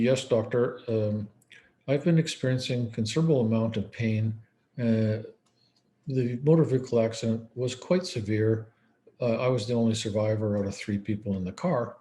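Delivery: a hint of detached, emotionless reporting; flat robot report. Dissociated patient reporting to doctor, lightly flat emotionless. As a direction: recite the pain like a dull report, no feeling. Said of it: "you're getting this robot report, but there's no emotion there".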